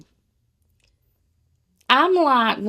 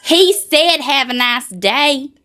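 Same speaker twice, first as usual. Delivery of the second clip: sweet clerk; 4 semitones higher, 5 dB louder, much slower than usual. Retold or imitated. Imitating sweet gas station clerk.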